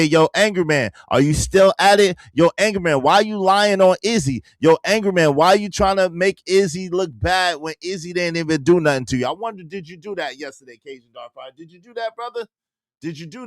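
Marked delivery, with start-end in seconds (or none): 0.0-9.3 mock callout. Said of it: "did you say".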